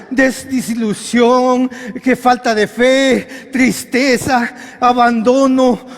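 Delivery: slow, weighty list with stretched endings; drawn-out listing. Real, not acted. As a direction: stretch each word out for the congregation. Preacher lists woes slowly, drawn out.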